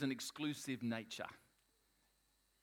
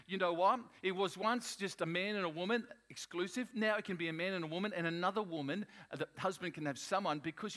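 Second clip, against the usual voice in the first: lightly acted worldly argument, higher and pushed; 4 semitones higher, 3 dB louder than usual. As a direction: raise the pitch to mimic society making its case. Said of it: "in the world is they're saying".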